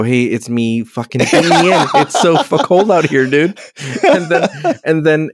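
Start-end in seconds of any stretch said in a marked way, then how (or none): 0.0-3.6 laughing quote. Retold or imitated. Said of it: "use the intercom and go".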